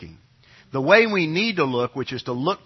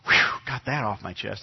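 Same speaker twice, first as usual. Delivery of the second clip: relieved sigh; 6 semitones lower than usual. Retold or imitated. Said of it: "they had this kind of".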